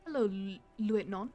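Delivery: put-on light copy of the radio dispatcher's French-tinged accent, "Lieutenant" said with a nasal end; imitating the dispatcher's accent. Streamer echoes the game's radio dispatcher, light French-tinged accent. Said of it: "I love the accent so much".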